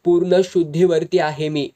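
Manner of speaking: loud angry insistence; husband angrily insists he is sober, loudly; roaring. Acted. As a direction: thunder that he is fully sober. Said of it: "Damu गरजला".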